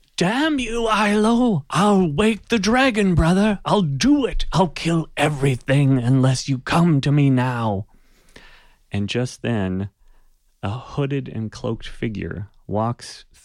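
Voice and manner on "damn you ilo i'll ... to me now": crazed, high, slightly unhinged screeching. Game master voicing a figure heard over the din of battle, slightly unhinged screeching. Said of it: "slightly unhinged, screeching".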